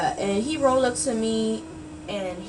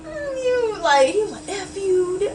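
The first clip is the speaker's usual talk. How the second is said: higher, louder mock curse; quoting the rejected catcaller who cursed her, mock angry; 11 semitones higher, 6 dB louder than usual.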